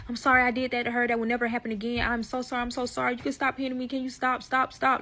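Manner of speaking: lightly voiced pleading friend, quick; apologizing friend. Friend begging the husband to stop hitting, lightly pleading. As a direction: rush the mock apologies. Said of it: "the close friend start apologizing".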